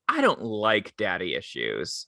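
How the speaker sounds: slow, deliberate mock disapproval; disapproving customer. Customer turning down the coworker's movie suggestion, mock disapproving. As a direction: imitate a customer turning the film down, drawn out. Customer abruptly rejects the film.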